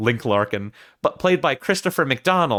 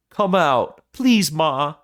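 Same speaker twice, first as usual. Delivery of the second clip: higher-pitched, imitated son's plea; calmer pleading son; 4 semitones higher, slower than usual. Son asking his mother to come out, imitated calmer plea. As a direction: attempt a son coaxing in a put-on voice. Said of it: "Harry gets more calm now".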